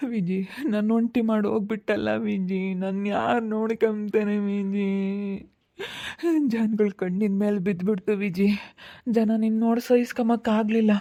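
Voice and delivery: loud mournful wailing calls to the dead; keen over her, calling her name; grieving lament. Real, not acted. Mother calls to dead daughter Viji, wailing in grief.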